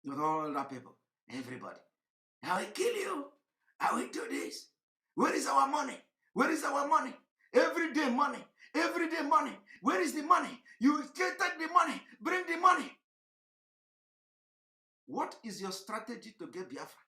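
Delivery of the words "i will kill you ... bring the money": mock rowdy agitator. Mocking agitators' threats and demands.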